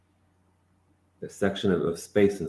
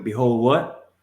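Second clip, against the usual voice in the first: louder call-back; challenging question; 4 semitones higher, 4 dB louder, slower than usual. Real, not acted. Teacher demanding the student repeat louder. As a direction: push for the answer.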